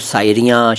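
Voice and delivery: शायरियाँ with s for sh, "saayriyaan"; common mispronunciation. Retold or imitated. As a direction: open शायरियाँ on a plain s. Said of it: "कुछ लोग तो शायरियाँ". (शायरियाँ में श की जगह स)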